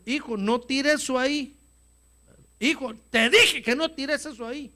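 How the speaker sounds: padre que repite la orden, más firme y agudo; padre insistiendo. Acted. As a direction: insiste con firmeza creciente, sin gritar aún. (orden paterna insistente)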